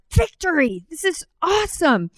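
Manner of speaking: high, jubilant victory cry; a retold burst of triumph; excited cheer. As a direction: crow about the win, pitch way up. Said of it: "I was so pumped".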